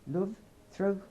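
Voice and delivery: punchy Aussie accent, breaking off unsure; Australian accent. Shown as a demonstration. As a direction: demonstrate a broad Australian accent. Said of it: "to sound more Australian".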